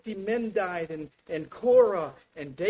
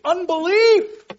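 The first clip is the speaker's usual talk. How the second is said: a slow, much louder, higher cry of unbelief; cried-out word; 12 semitones higher, 14 dB louder, slower than usual. Real, not acted. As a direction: fling the word out as a climax. Preacher cries out the word.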